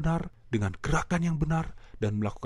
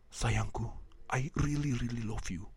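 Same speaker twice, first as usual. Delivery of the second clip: softer, tender love words; gentle loving confession, fading quieter; tender declaration; 3 semitones lower, 5 dB quieter than usual. Shown as a demonstration. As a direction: breathe it out tenderly.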